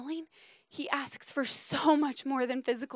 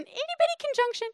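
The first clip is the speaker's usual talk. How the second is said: very high, quick "itty-bitty"; playful squeaky-small voice; tiny voice; faster than usual. Shown as a demonstration. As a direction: make it sound teeny, way up high.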